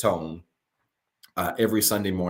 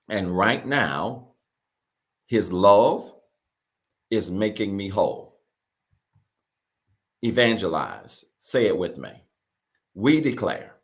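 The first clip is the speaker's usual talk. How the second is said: slow call-and-repeat delivery; short phrases with long pauses to repeat after; slow, paused declaration. Real, not acted. Pastor leading viewers in a declaration to repeat, slow and deliberate. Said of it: "read it slow and pause".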